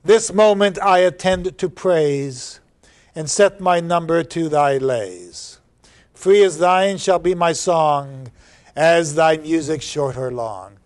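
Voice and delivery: measured, lyrical reading of verse; poem recitation. Acted. Teacher reads the poem to the class, lyrical recitation. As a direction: savor each line of the poem.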